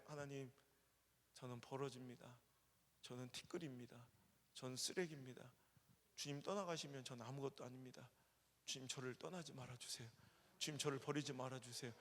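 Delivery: soft, low-key humble prayer, retold; pleading under his breath. A pastor recalls his daily morning prayer, softly humble. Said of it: "백 번을 외치는 거예요".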